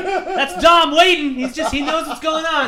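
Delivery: hushed, awed play-along voice; mock announcement. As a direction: act like you know a secret. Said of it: "just like".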